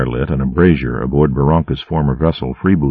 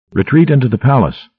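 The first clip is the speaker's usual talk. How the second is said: called order; 8 semitones higher than usual. A narrator's reading. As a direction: shout the order to fall back. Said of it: "he called to his monitors".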